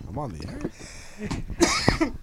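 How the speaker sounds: slow stretched mocking echo of the line; mocking drawl. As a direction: drag it out to tease him.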